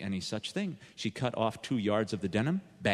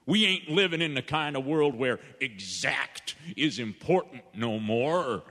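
laughing salesman; 2 semitones higher than usual. Acted. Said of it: "And the salesman laughed".

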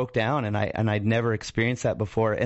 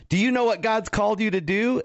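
imitating the eager neighbor; 11 semitones higher than usual. Neighbor lady eager question.

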